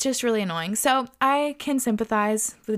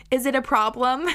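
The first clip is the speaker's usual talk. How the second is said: put-on Italian accent; 3 semitones higher than usual. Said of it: "in her Italian accent".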